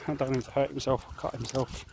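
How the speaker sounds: ordinary delivery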